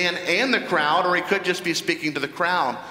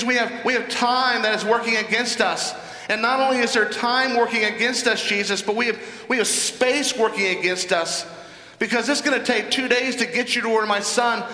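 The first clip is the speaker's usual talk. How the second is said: higher-pitched acted pleading; desperate urgency; 5 semitones higher than usual. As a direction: press the case like a desperate father. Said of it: "great desperation. Time is of the essence".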